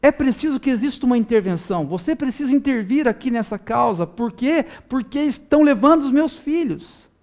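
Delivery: impassioned appeal, pitch climbing to the end; crying out to God. Acted. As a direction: cry out to God for intervention. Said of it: "a gente começa a gritar".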